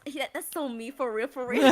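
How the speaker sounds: laughing through it. Retold or imitated. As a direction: giggle the words out. Laughing own reaction.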